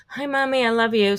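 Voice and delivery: put-on high sweet kid voice; chirpy little boy; child voice.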